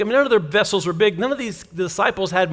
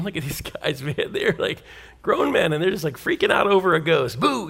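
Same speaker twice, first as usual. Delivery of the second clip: amused inner voice; 3 semitones lower, 5 dB quieter than usual. Acted. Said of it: "chuckling a little bit in his mind".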